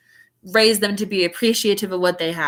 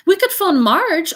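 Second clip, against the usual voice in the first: higher, slow suggestion in a gruff uncle voice; Uncle Vernon; 8 semitones higher, 4 dB louder than usual. A narrator's reading. Uncle suggesting to aunt, slow and higher. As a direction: voice him proposing it deliberately. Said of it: "Uncle Vernon suggested".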